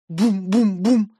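slow, heavy booms; booming knock imitation. A narrator's reading. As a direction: voice three slow thuds on the door. (медленный гулкий стук)

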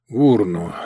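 out of breath from walking; puffing. Acted. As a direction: puff the words while trudging. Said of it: "пропыхтел Виктор Петрович".

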